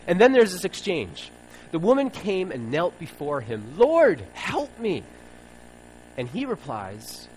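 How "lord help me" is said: high, loud and slow desperate plea; pleading. Acted. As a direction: beg with everything you have. Kneeling woman begs Jesus.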